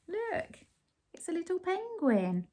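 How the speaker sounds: high, fast excitement; delighted pointing. Real, not acted. Parent pointing out the penguin to the child.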